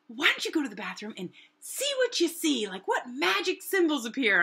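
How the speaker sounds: high, loud friend imitation; Lonnie. Friend sending her off to the bathroom, high mock voice. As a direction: push the voice up into a teasing suggestion. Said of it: "and she's like".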